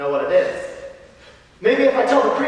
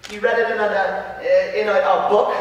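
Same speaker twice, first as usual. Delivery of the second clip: put-on nervous child. Frankie tells the priest the source, halting and nervous. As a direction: stammer toward the word book.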